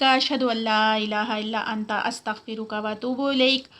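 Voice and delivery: Arabic dua recited in a slow measured chant; closing prayer recitation. Acted. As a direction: pray the closing words slowly and devoutly.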